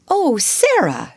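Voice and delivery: high, drawn-out exclamation; slow, high-pitched cry of surprise; exclaimed. A narrator's reading. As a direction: greet with startled, forced pleasantness. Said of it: "she exclaimed".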